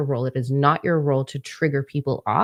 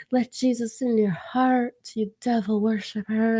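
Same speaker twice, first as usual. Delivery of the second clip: preachy zealot; 6 semitones higher than usual. Retold or imitated. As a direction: sneer like a sanctimonious believer. Mocking preachy critics.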